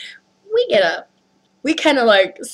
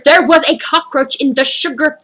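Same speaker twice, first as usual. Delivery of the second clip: insistent, raised-pitch repeat; emphatic repetition; 4 semitones higher, slower than usual. Retold or imitated. Customer repeating the complaint to staff, emphatic repetition. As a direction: spell it out for people who will not react. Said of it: "I keep repeating the words".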